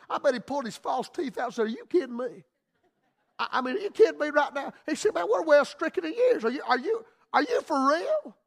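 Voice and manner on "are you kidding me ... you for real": put-on laughing, higher in stretches, amazed old man; old Zacharias hearing he will finally be a father; surprised disbelief. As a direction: stammer it out in happy disbelief. Zacharias hears he'll have son.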